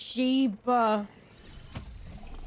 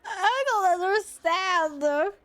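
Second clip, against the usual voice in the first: baffled; 4 semitones higher, much slower than usual. Real, not acted. Baffled by the creepy laugh.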